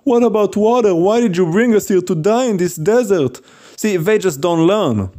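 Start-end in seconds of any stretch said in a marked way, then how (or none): 0.1-3.4 higher-pitched mock complaining; grumbling complaint. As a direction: imitate the Israelites griping at their leader. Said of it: "they kept grumbling, complaining".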